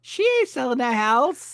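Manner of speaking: high, loud scoff of disbelief; emphatic disbelief. Real, not acted. Co-host reacting to the offer on her house, emphatic disbelief. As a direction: shoot it down, pitched right up.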